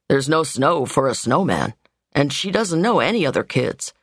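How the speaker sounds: lightly voiced man excusing his sister; the brother. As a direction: explain gently as the steady brother. Narrator voices Andy.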